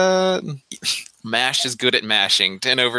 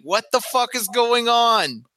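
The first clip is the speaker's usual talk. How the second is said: higher, pushed mock yell; stage whisper yell; 9 semitones higher than usual. Sneaking from behind the tree, hammed-up yell. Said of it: "as you're yelling that".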